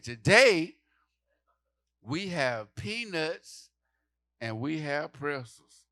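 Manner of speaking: mock sweet attendant, slow on peanuts; sing-song airline announcement; lightly hammed flight attendant. Flight attendant voiced in story.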